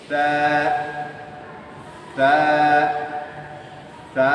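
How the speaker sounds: তা said very soft with tongue on teeth tips; a gentle, soft তা; soft letter. Shown as a demonstration. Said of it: "একেবারে নরম, soft". (একেবারে নরম করে তা)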